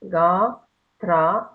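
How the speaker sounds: "Ga, Tra" each with a full, long aa. Shown as a demonstration. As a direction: stress the long aa in "Ga" and "Tra", one at a time. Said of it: "the A has to be A".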